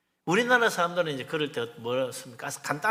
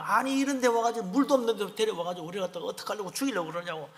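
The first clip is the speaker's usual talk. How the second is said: imitating a thirsty people's protest; mock grumbling; 4 semitones higher than usual. Thirsty Israelites complain to Moses, grumbling. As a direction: pour out a lightly acted grievance. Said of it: "그게 원망을 하는 거야".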